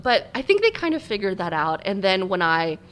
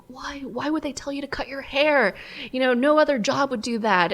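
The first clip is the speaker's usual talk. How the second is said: higher-pitched, insistent questioning; mock parental protest, pitched up; imitating baffled parents; 6 semitones higher than usual. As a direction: act out parents demanding an explanation. Parents' nagging questions acted out.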